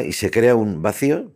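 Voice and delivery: ordinary delivery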